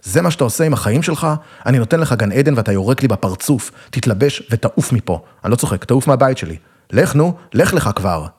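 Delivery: father throwing his son out, a mild mock yell; angry father yelling. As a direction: push the son out of the house in mounting anger, slowing on the last "לך". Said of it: "אבא דפק לי אגרוף בצלע וצעק".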